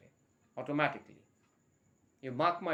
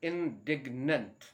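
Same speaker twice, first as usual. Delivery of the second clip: slow model word; much slower than usual. Shown as a demonstration. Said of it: "doesn't care attitude also".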